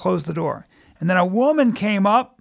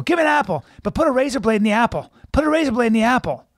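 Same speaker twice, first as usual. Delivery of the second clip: joking demand; 5 semitones higher, faster than usual. Retold or imitated. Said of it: "I jokingly, I went, I go".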